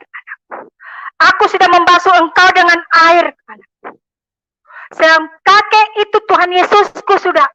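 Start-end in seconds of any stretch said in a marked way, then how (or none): 0.1-0.7 breathy whispered tag at the end of the line; whispering the tender address at the end. Retold or imitated. Jesus speaks in her vision. 1.2-3.3 higher and louder second time; preacher raising the quoted words of Jesus; louder repeat. Retold or imitated. 3.5-4.0 breathy whispered tag at the end of the line; whispering the tender address at the end. Retold or imitated. Jesus speaks in her vision.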